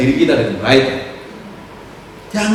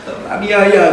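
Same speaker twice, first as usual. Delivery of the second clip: slow, louder, hammed-up self-pitying wail; mock whining; 4 semitones higher, 4 dB louder, much slower than usual. Preacher mocks a wife crying to God, slow whining. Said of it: "kamu nangis".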